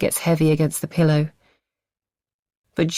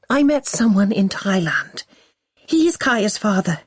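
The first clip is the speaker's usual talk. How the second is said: desperate lie; 5 semitones higher than usual. Acted. Wife lying desperately.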